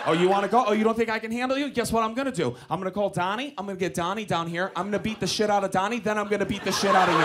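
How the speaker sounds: fast, mock tough-guy threats; Mark Wahlberg. Comic threatening to call a friend in, hurried tough-guy act. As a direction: rattle off the threats in one escalating run. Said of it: "I wanted to go full Wahlberg".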